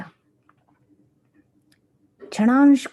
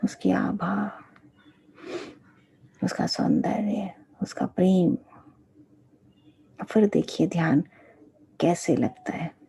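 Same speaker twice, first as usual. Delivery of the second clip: guided meditation; 3 dB quieter than usual. Real, not acted. Teacher leading disciples to meditate on the guru, guided meditation. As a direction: guide them gently, phrase by phrase.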